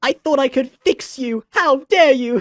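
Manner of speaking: very high, shrill, loud put-on voice. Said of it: "that's how Orchid's voice is gonna be".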